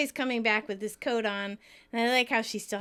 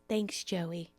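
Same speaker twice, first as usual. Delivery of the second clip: quiet thanks; 4 semitones lower, 6 dB quieter than usual. Retold or imitated. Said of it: "Monica quietly says".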